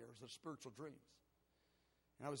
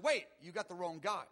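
urgent plea, starting loud then easing; acted-out protest, loud at first; pleading; 2 semitones higher, 5 dB louder than usual. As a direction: plead your case, retelling it. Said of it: "I was pleading with him".

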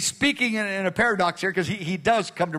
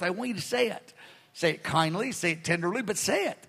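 gentle urging; 3 semitones lower, 6 dB quieter than usual. Acted. Jesus urging gentle speech.

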